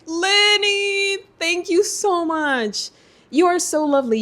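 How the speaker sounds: high, drawn-out heartfelt thanks; really moved, high and slow; touched gratitude. Real, not acted. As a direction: gush slowly to a dear friend. Touched, thanking friend for gift.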